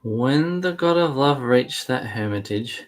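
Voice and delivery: deliberate read-aloud, slowing as it goes; measured storybook recital; scripture narration. A narrator's reading. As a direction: read the tale out carefully, stretching phrases. Co-host takes over reading.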